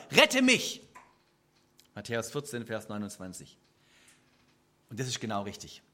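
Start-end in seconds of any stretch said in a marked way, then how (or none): 0.1-0.8 desperate shout, much louder and higher; cry for help. Acted. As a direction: scream it as you sink. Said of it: "schrie er". (verzweifelter Schrei um Hilfe)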